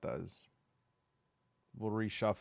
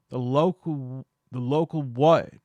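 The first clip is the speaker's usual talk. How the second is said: put-on Southern accent; 4 semitones higher, 10 dB louder than usual. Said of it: "Wait, we're not in the South".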